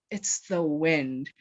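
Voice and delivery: deadpan. Retold or imitated. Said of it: "looks at him with a straight face".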